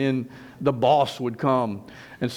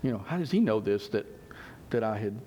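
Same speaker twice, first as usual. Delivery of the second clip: low, soft wondering to oneself; halting, hushed puzzlement; puzzled aside; 3 semitones lower, 8 dB quieter than usual. Acted. Thomas wondering how Jesus knew, puzzled aside.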